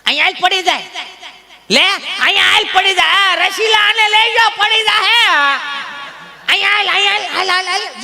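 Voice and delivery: put-on high, anxious old granny calling a little one near; shrill-free granny fretting the child will fall; grandma calling the toddler. Grandmother coaxes toddler across the veranda, high and fussing. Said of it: "બા આમ, આમ, આમ".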